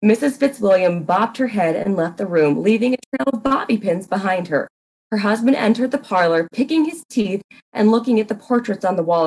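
even, measured storyteller voice; story narration. A narrator's reading. Narrator setting up the parlor scene, measured and even. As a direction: read it like a mystery narrator.

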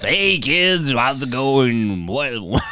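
cheesy morning radio DJ voice; chirpy breakfast show host patter; Dan Reed morning zoo voice. Pretend. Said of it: "Do you think he does it in a Morning Zoo voice?".

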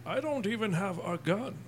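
lightly voiced Bane, very slow; Bane impression. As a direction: drag it out in a mock villain voice. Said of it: "You can just be like".

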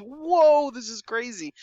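high-pitched mock amazement, loud at first then dropping; imitated freak-out. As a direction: act out her stunned "whoa". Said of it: "she just freaks out".

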